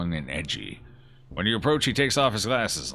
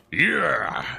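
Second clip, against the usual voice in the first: excited cheer; 7 semitones higher, 5 dB louder than usual. Acted. High five cheer.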